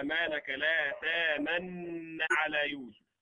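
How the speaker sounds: تامن said with a plain merged nun, no rounding; full merging. Shown as a demonstration. Teacher quoting the reading of one of the ten reciters. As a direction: merge the nuns in تامن with no ishmam. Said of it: "بالإدغام محض دون إشارة".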